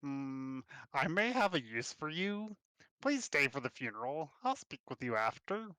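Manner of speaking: put-on lightly accented half-orc mayor; a hint of orcish twang; guttural orcish twang. Half-orc mayor asking you to stay, light orcish twang. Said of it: "her common heavily accented with the guttural orcish twang".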